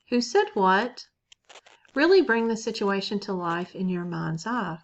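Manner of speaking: unhurried guided-meditation voice with long pauses. Acted. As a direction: lead listeners gently inward, leaving space between phrases.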